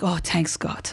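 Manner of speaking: put-on relieved mom in a Persian accent; low, Persian-accented mother. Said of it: "Your Persian accent, by the way, is so on point".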